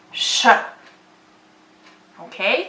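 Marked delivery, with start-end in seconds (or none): 0.1-0.5 sh said as a long hushed hiss; teaching the sh sound slowly. Shown as a demonstration. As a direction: blow out a steady sh. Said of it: "now we pronounce this as".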